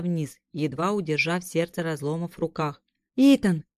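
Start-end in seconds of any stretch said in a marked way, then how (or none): 3.2-3.6 calling out. Acted. Kira calls out to hero.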